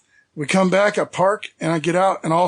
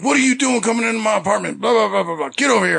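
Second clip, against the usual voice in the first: retold angry rant; 4 semitones higher, faster than usual. Retelling angry dude confronting intruders.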